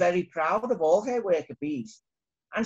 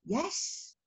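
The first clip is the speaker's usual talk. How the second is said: a small, much softer yes; very quiet; 8 semitones higher, 8 dB quieter than usual. Acted. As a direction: barely say it, ashamed. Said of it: "in a very quiet voice".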